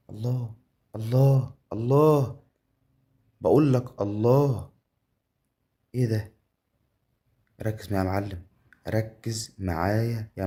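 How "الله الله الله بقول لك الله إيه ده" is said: loud, high exclamations building; drawn-out, swelling whoops of delight; amazed cheering. Real, not acted. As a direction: cry out in mounting amazement. Cheering the game result.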